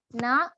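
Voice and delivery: Na with ain from the middle of the throat. Shown as a demonstration. Teacher showing the ain sound. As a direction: Na said from mid-throat. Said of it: "ainnya dari tenggorokan yang tengah".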